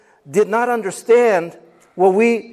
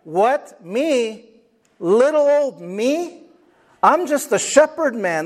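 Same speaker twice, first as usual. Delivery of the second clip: panicked Moses; slower than usual. Acted. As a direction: protest in disbelief that God would pick him. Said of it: "He's going like".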